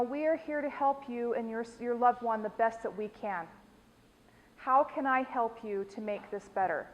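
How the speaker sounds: soft, patient customer service voice; pleasant tone. Shown as a demonstration. Teacher modeling a pleasant tone for a visitor. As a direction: reassure a confused visitor gently. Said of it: "I'm going to use a pleasant tone of voice".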